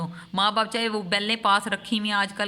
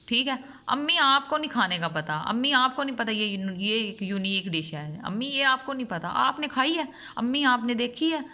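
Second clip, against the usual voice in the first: lightly voiced know-it-all child, higher-pitched; mocking a grown child who lectures their mother; condescending grown child; 3 semitones higher than usual. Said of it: "اکثر آج کل کی اولادیں".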